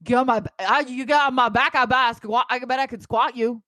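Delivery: lightly acted pushy drunk; a hint of drunken bravado; drunk character. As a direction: play a drunk boast, stumbling over words. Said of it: "Yeah, get into drunk".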